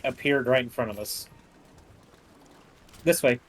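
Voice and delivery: ordinary talk, nothing marked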